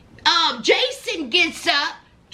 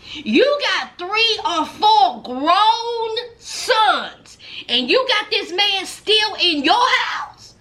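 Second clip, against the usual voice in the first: incredulous scolding; 4 semitones higher, slower than usual. Retold or imitated. Scolding the absent mother.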